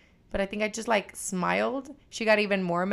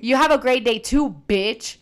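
snide retold insult; 6 dB louder than usual. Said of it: "and she goes".

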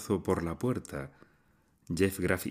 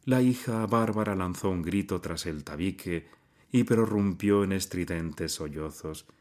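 usual speaking voice

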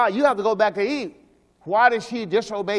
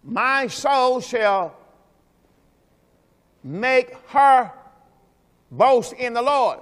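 "make her" hit louder, the whole verse drawn out slow; stress on her; 3 semitones higher, 4 dB louder, much slower than usual. Shown as a demonstration. Preacher reading Psalm thirty-four to the church, slow with "her" stressed. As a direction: land on "her" like it's underlined. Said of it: "circle the word "her".

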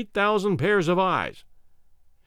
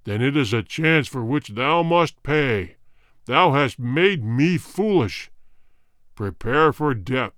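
cruel king voice; 4 semitones lower, slower than usual. Acted. King condemns soldier.

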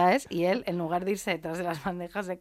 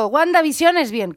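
high, loud put-on voice; mock hipster; 9 semitones higher, 10 dB louder than usual. Mocking her ex's trendy slang, high and loud. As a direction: send up a trendy guy's slang.

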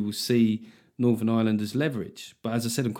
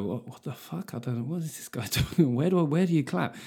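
baffled audience; 3 semitones higher, 4 dB quieter than usual. Retold or imitated. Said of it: "people go".

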